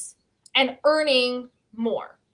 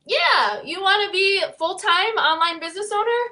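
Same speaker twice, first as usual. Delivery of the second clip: higher, mocking voice of God with a tearful edge; teasing divine sarcasm, pitched up; sarcastic God; 6 semitones higher than usual. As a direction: play God handing out a cruel joke. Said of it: "God was like".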